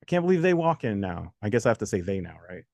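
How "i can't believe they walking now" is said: higher-pitched amazed relatives, lightly voiced. Uncles and aunts seeing a baby walk, lightly mimicked amazement. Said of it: "your uncles and aunts come over and go".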